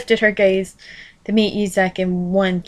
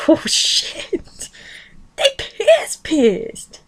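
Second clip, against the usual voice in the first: laughing; 8 semitones higher, much slower than usual. Real, not acted. Laughing reaction to the story.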